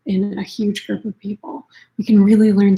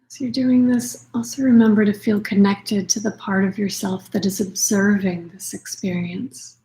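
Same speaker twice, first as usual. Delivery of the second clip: unhurried meditation voice with long pauses; guided meditation. Acted. Yoga nidra teacher settling listeners into practice, calm guided meditation. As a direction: gently guide them inward, leaving space for breath.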